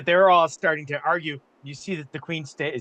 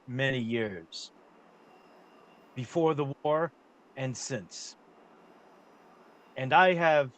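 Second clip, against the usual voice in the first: Lord Ethor; slower than usual. Acted. GM voices Lord Ethor petitioning.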